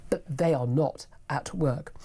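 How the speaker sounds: slow, pointed stage whisper; sarcastic whisper. Acted. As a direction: whisper it like a sly dig. Sarcastic aside about benefit claimants.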